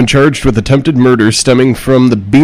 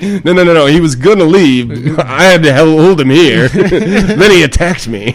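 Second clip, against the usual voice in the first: higher protest broken by laughs; laughing mock excuse; 4 semitones higher than usual. Man giving police his excuse, laughing mock protest. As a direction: plead innocence while cracking up.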